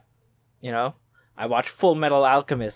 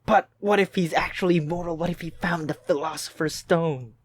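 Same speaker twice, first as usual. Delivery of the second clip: hammed-up speculation; mock conspiracy theorist; 3 semitones higher than usual. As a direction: play an eager crank pitching wild theories. Plays a gullible conspiracy theorist.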